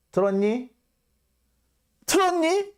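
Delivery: very high mocking question; shrill sarcastic jab; sarcastic taunt. Real, not acted.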